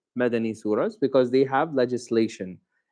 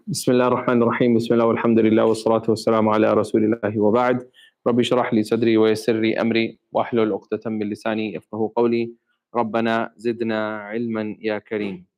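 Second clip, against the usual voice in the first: rapid, level Arabic prayer recitation; opening supplication; 3 semitones lower, much faster than usual. Real, not acted. Teacher opens class with bismillah and supplications, quick recited prayer. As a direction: run through the familiar opening prayer quickly.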